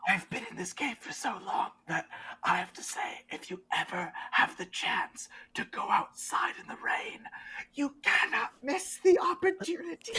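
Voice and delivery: high, airy, hushed character voice; whispery game character. Acted. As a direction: speak up in a soft, whispered falsetto. Game master plays cave character.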